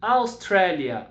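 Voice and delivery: slowed Austrália for repeating; teacher drilling for class repetition; slow model word. Shown as a demonstration. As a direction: drill Austrália slowly, clearly. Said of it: "repitam comigo".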